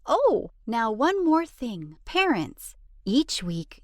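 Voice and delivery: a quick, friendly ad read. Acted. Narrator pitching the book to parents as an ad read. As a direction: sell the book to parents briskly.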